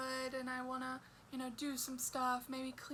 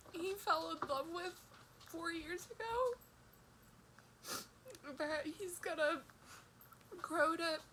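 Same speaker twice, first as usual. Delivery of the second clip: tearful, voice wobbling with fear; blubbering. Real, not acted. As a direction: cry through the words.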